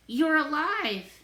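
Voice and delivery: loud, slow, relieved yell. A narrator's reading. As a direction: call out in disbelief. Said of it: "I yell".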